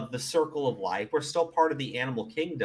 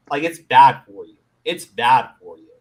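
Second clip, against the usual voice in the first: emphatic; 10 dB louder than usual. Real, not acted. Repeated point.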